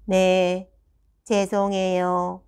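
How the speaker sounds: slow monotone mimicked pupil; drawn-out, toneless, empty sorry; soulless apology. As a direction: imitate an apology with zero feeling. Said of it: "영혼 일도 없는 말투".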